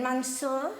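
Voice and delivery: "Monsieur" with an English-sounding first syllable, "mon"; mispronounced French. Shown as a demonstration. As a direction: attempt "Monsieur" as an English speaker would, sounding the n. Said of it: "I can't get it".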